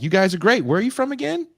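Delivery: a label exec hyping a new act; upbeat label exec. Retold or imitated. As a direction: play the eager label boss. Label exec quoted in story.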